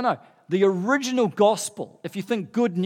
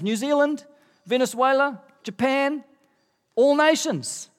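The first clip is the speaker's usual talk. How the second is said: each nation called out higher and louder; rising fervour; 7 semitones higher, 3 dB louder than usual. Real, not acted. Preacher to congregation, naming every nation, excited and climbing. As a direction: build the list with growing excitement, voice climbing.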